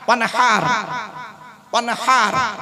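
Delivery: ওয়ানহার, breathy throat h before the a; throat h in wanhar. Shown as a demonstration. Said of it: "গলার ভেতর থেকে হে এটা উচ্চারণ করবে".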